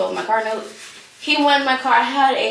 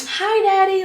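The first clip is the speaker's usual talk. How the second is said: imitating toddler; 10 semitones higher, slower than usual. Daughter greeting dad on phone.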